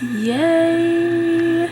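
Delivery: high squeal of joy; little cheer; excited yay. Real, not acted. Celebrating views.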